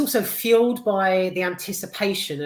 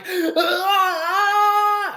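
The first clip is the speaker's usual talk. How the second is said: high shrill imitated scream of Rose; mock scream; 12 semitones higher, 7 dB louder than usual. Rose's horror scene retold, imitating her high mock scream. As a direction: shriek it like Rose mid-attack. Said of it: "She's like".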